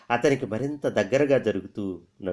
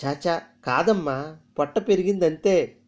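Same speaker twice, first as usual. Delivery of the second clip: humbly; 7 semitones higher than usual. Acted. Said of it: "Veeramma వినయంగా చెప్పింది".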